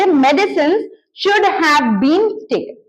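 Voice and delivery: each word spaced out for learners; slow model sentence. Shown as a demonstration. Teacher dictating the English sentence slowly to students. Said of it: "सीधे verb का third form".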